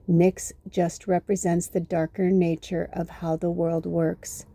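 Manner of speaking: slow, measured book reading; reading aloud. Acted. Reading a book passage on Nyx to viewers, measured read-aloud. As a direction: read it out slowly, with pauses between phrases.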